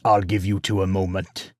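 hesitant, faltering excuse; hesitate, then excuse yourself awkwardly. A narrator's reading. Farmer leaves father and son alone, awkwardly. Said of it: "stood awkwardly".

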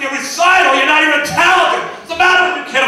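put-on scornful outburst at the kid; mock scornful dad. Stressed dad snapping at his son about the recital. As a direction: sneer at the recital like a jerk dad. Comic mocks son's recital request.

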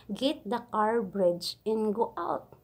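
slow, drawn-out broken English order; imitating the boss. Maid repeats her employer's confusing car order. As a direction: spell out each word like a bossy employer. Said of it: "Ganito ang pagkasabi".

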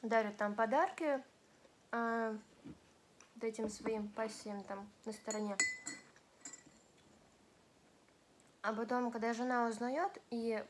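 talking while chewing; words muffled by food; mouth full. Real, not acted. Seen 2: eating sushi just before; jaw and cheeks look chewing while speaking.

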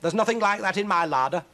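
high, loud indignant witch voice. Acted. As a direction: protest loudly, pitched high. Witch protests to cat.

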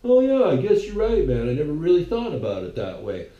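lightly mock a host who agrees with anyone; dopey Joe Rogan. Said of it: "And Joe Rogan's like".

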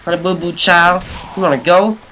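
high, loud mock challenge; silly taunt voice. Gamer taunting a zombie, silly high voice. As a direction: goad them in a silly high voice.

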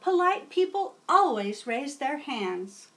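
put-on old teacher welcoming a new student; kindly teacher. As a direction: greet a new pupil warmly. Teacher instructs.

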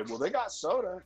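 high mocking voice for the clueless coworker; mimicking the idiot. Coworker offering soda to a sober man, mocking high voice. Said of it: "he had the fucking audacity to say".

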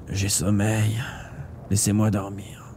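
soft, sleepy near-murmur; drowsy and fading. A narrator's reading. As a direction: let the words sink away, drained. Dying man says he is sleepy.

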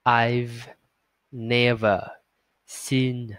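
each word slow and firm; slow and steady. Shown as a demonstration. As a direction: read it slowly and firmly. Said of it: "thật là chậm và thật là chắc". (đọc thật chậm và thật chắc)

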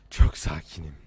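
very low voice insisting on calm; deep, forced composure; insisted calm. Real, not acted. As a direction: push the pitch right down to steady yourself.

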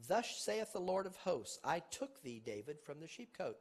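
loud, ringing reading of scripture; preacher declaiming scripture to the congregation; scripture preaching. Acted. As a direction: proclaim the verse like a preacher. Preaching scripture at full force.

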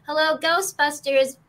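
a light hint of Janine Melnitz; Janine Melnitz line. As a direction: toss off the receptionist line lightly. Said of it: "Janine Melnitz. She did say that".

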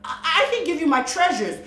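high, fast nervous stammer; nervous rush. A narrator's reading. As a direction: blurt it out anxiously. Melody nervously offering.

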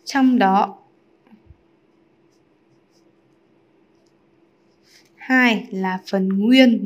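drawn-out words with long pauses; slow dictation. Real, not acted. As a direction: dictate slowly, piece by piece. Writing out the answer slowly.

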